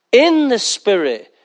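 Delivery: "In" hit hard, phrase drawn out slowly; slow down and press on "In"; slow stress on in. Shown as a demonstration. Preacher drilling the point home, slow and stressed.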